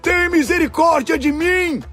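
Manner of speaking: high pleading shout; crying out. A narrator's reading. Blind beggar begs Jesus for mercy, high pleading shout. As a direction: cry for mercy at a high pitch. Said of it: "começou a gritar".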